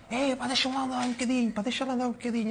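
put-on a high, teasing Madeiran-accented plea; Madeiran accent imitation. Teammate mimicking Cristiano begging to drive the cart, Madeiran accent. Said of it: "com aquele sotaque ainda madeirense".

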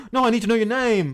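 high, loud pleading cry; urgent, hammed-up plea at high pitch; desperate calling out. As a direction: call after someone running away. Prince calls after fleeing woman.

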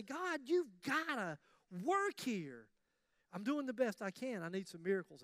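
slow, pleading prayer; drawn-out plea to God; earnest prayer. Retold or imitated. Believer handing his finances over to God, slow and earnest. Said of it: "stand back and say".

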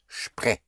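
"spre" with sp said as shp. Shown as a demonstration. Teacher explains German spelling, "spre" pronounced shpre. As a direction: start "spre" on a sh sound. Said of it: "always has the sound of S H P".

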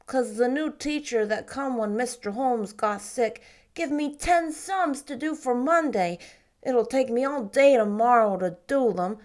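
put-on sulky boy. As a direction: drag it out like a moping ten-year-old. Davy grumbles about teacher.

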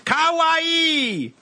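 high squeaky kawaii; cute anime squeal. Acted.

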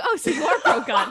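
high, loud, laughing mock accusation; retold accusing conclusion. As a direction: hit "are" hard, laughing through it. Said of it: "so they were like".

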